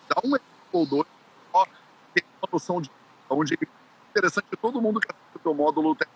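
choppy robotic voice breaking up; glitchy voice over bad connection; toy robot voice. Real, not acted. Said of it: "a sua voz tá falhando bastante, você tá falando tipo robozinho".

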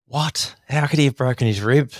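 mock disbelief at the news; retold disbelief. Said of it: "And I'm like".

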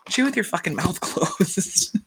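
slow, laughing repeat of the scold; cheering the daughter on, laughing through it; laughing echo. Retold or imitated. Podcaster echoing the daughter's scold, laughing. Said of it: "But I was just like".

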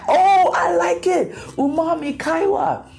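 high, pleased, savoring the word; delighted. Retold or imitated. Finding the Japanese word for conversation, delighted. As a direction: fall in love with the name.

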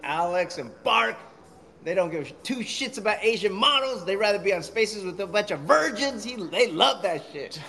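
heavy British accent, mocking; British stranger mocking Alex and Bark; thick British accent. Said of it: "that accent was so thick".

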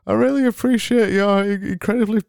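high, brightly put-on cheer; over-the-top happy host; fake happy voice. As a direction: beam through every word. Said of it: "happy people sound like".

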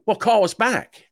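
high, slow, offhand imitation; dismissive office staff. Voicing the doctor's casual reply.

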